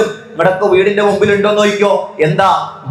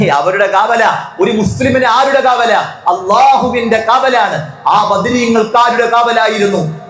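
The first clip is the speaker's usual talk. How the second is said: indignant preaching cry; 5 semitones higher than usual. Real, not acted. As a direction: demand it of the crowd.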